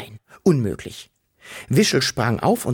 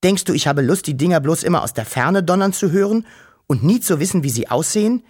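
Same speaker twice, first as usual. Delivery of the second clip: put-on higher, defiant and a bit fast, mildly sulky boy; stubborn; 4 semitones higher, 3 dB louder, faster than usual. Wuschel defiantly answers his worried sister, lightly sulky and stubborn. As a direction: push back like a pouting little brother. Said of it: "antwortete Wuschel bockig".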